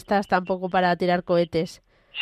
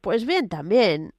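hoarse honking voice from a cold; croaky cold voice like a duck. Real, not acted. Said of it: "parece un pato hablando ahí".

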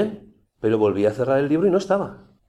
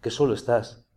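pitying inner voice; 3 semitones lower, 3 dB quieter than usual. Retold or imitated. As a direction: coax him gently, as if feeling sorry for him. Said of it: "volvía".

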